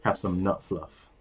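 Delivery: slow creepy offer; lightly creepy, drawn-out offer. Pretend. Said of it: "It sounds even creepier when you say it like that".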